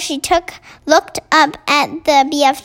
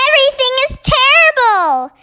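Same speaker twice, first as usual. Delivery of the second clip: Queen of Sweden; 11 semitones higher, 3 dB louder, faster than usual. Acted.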